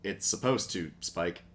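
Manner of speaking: flat mock Wheeljack deadpan. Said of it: "Wheeljack's very deadpan".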